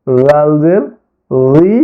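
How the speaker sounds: "রি" said as dhi, th as in "this"; tongue tip to upper teeth on "জাল" and "রি"; correct dhal pronunciation. Shown as a demonstration. Teacher modelling how we should say it, dental dhi on "রি". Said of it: "তাহলে আমরা কিভাবে বলবো".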